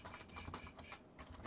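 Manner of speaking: soft unvoiced shushing; long whispered shh. Real, not acted. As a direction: hush them urgently under the breath. Shushing the room.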